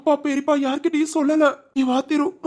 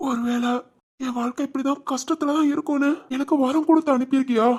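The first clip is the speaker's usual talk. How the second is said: pleading with God. Acted. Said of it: "கடவுள்கிட்டயே சண்டை போடுற மாதிரி இருக்கு".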